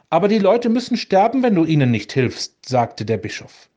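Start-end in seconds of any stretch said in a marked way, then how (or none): 0.1-2.7 higher, fast, pressing plea; urgent plea. Acted. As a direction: push the words out to save lives. Bishop pleads for starving people.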